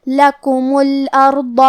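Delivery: لکم الارض with both u sounds equal and clear; even vowels. Shown as a demonstration. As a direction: give each u in لکم the same length. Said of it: "دونوں پیش کو برابر سا ادا کریں گے".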